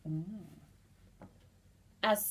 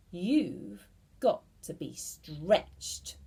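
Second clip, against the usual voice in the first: slow ominous verdict; 2 semitones lower, slower than usual. Acted. Mr Twit announcing the cure.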